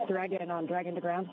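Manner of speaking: crackly radio from orbit; broken-up space-to-ground call; breaking up space radio. Real, not acted. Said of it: "If you're coming a little broken".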